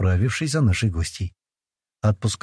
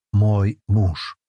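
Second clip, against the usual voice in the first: proud. Acted. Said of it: "гордо ответил я".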